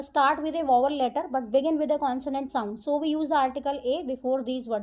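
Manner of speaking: reads the rule out word by word, very slow; slow rule reading. Acted. Teacher reading the rule to her students, slow dictation. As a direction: dictate it slowly to the class.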